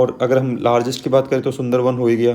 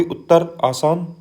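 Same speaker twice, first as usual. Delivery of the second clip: slow, stretched उत्तर आसान with आसान drawn out and rising; slow mnemonic; 4 semitones higher, slower than usual. Shown as a demonstration. Teacher giving students a memory trick, slow and stretched. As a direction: spell out उत्तर आसान slowly so it sticks. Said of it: "इसकी trick ये होगी".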